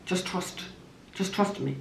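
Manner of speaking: soft reassuring whisper; hushed reassurance. Retold or imitated. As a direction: soothe her in a near whisper. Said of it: "I said to Sonia".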